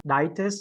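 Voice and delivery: "ditis" with weight on DI, long eye vowel; stress on itis. Shown as a demonstration. Teacher explaining where emphasis goes, stressed DI in "ditis". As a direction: hit the first syllable of "ditis". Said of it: "put the emphasis on the itis".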